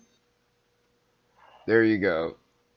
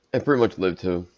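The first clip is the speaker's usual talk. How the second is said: hiccuping mid-sentence; words broken by hiccups; faster than usual. Real, not acted. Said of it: "got the hiccups".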